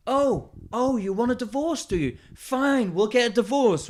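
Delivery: high, hammed-up outraged wife; mock angry wife. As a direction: squeal it as the furious missus. Wife voiced shouting in retold bit.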